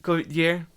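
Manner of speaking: Gauthier said with a lisp. Real, not acted. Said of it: "my lisp kept in there".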